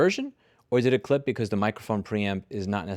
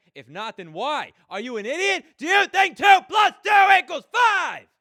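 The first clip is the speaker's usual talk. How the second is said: all-out, very high, shrill, rising scream; 6 dB louder than usual. Testing a microphone for clipping by screaming into the recorder: screaming. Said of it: "me screaming into the Zoom".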